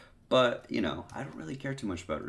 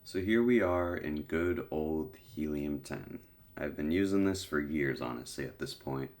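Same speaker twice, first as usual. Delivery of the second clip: stuffy nose, getting over a cold; congested; 2 semitones lower than usual. Real, not acted. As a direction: sound a bit sick and blocked up. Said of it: "Apologize if I sound a little congested or sick".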